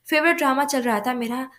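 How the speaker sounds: a touch of fed-up complaining; lightly acted annoyance; exasperated whine. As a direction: grumble like a sulky teen denied her show. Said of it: "रुबाब बुरी तरह से झुंझलाई".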